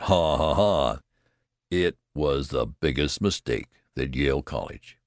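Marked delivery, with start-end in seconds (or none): 0.0-1.0 mocking laugh. A narrator's reading. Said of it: "The undergraduates laughed".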